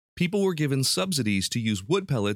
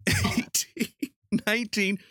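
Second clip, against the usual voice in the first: high pitch from strain, laughing; squeaking out the last reps. Real, not acted. Straining at the end of the push-ups.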